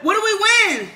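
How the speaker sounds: laughing. Real, not acted. Laughing during eating race.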